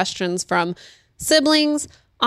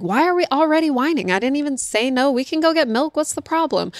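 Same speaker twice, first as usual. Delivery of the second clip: higher, baffled mom asking what the fuss is; mock-bewildered parent, pitched up; exasperated mom; 5 semitones higher than usual. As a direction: play the puzzled adult who doesn't get the whining. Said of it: "I'm like".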